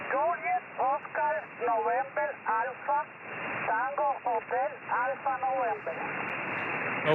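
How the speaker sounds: word by word, with small pauses; spelling out phonetically. Real, not acted. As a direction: spell it out carefully over the radio. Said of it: "Give it to me phonetically".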